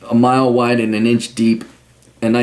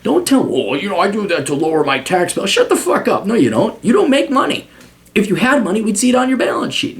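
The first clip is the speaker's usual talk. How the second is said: heated higher rant at a client; 6 semitones higher than usual. Retold or imitated. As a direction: tell him off hard. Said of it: "I'm like".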